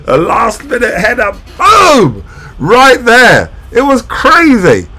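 high, loud, racing play-by-play; breathless fan calling a crazy finish; excited live commentary. Real, not acted. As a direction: call the final minutes like the goal just went in. Live reaction to late goal.

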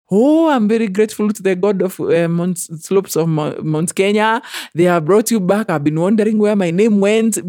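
grandmother praying. Retold or imitated. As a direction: pour out thanks like the grandmother. Grandmother's prayer retold.

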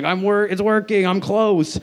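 high, strained cartoon hero; hammed-up breathless anticipation; mock-urgent excitement. Acts out hero nearing climax.

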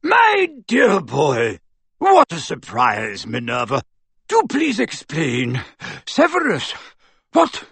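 put-on slow, puffing old professor; a fat wizard gasping for breath; Slughorn.

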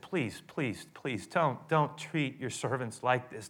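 soft, begging please; a touch of desperate begging; pleading. Acted. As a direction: plead quietly with the king. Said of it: "they pleaded with him".

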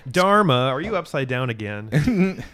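slow, loud put-on quote; imitating a woman. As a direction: draw it out loudly as someone else. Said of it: "she's like".

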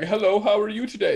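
high-pitched dorky greeting; mocking nerd. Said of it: "I wouldn't be like".

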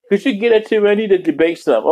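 a high, squeaky put-on lady voice; mock the woman on screen in a high voice; lightly voiced high lady; voicing the lady on screen.

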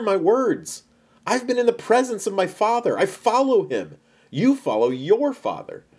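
high-pitched, emphatic teacher pressing the point; Jesus, earnest and insistent. Acted. Jesus confronts those claiming Abraham as father, insistent.

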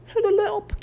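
very high gurgled cry; gurgling voice. A narrator's reading. Harold calls from the creek, gurgling. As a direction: gurgle it as if half underwater. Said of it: "came a gurgling voice".

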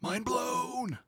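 high, soft, fake awe; mock amazement. Real, not acted. Mocking the obvious news with fake awe. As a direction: sigh it out like a sarcastic revelation.

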